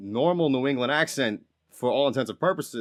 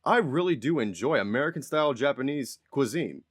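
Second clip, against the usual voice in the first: lilting, over-polite interview answer; K-pop interviewee. Retold or imitated. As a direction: imitate a pop idol's careful answer. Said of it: "he says something way more".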